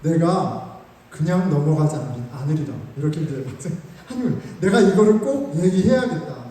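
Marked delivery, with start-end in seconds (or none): 0.0-2.7 slow, lower mock-grand vow; hammed-up solemn resolve. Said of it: "속이 부글부글부글 끓으면서". 4.6-6.5 louder, firm inner resolve; mock determination; determined resolve. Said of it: "속이 부글부글부글 끓으면서".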